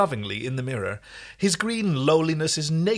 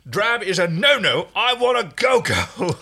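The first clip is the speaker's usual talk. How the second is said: sing-song excited; 7 semitones higher, 5 dB louder, slower than usual. Acted. Rigel declares fashion.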